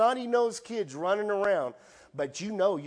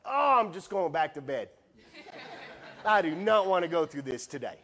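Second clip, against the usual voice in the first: laughing reply; 4 dB louder than usual. Retold or imitated. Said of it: "his groaning reply to God".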